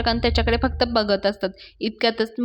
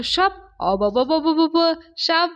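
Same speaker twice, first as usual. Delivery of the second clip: higher, hammed-up fake alarm; mock fright; 6 semitones higher than usual. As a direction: pretend to be scared to mock him. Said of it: "त्याची मज्जा करायला लागतो".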